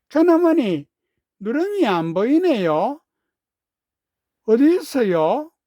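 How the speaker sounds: put-on young boy voice. A narrator's reading. Boy Seonwoo asks his aunt.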